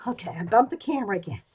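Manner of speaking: breathless from running the stairs; panting between words; out of breath. Real, not acted. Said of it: "All right, out of breath".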